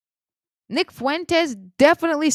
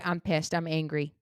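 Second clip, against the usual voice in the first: held-in anger; 7 semitones lower, 8 dB quieter than usual. Real, not acted. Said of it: "I promised I would try not to get loud".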